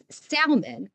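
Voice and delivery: salmon with an audible L, "SAL-mun"; L pronounced. Shown as a demonstration. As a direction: slowly sound out the L in "salmon". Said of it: "They say the L".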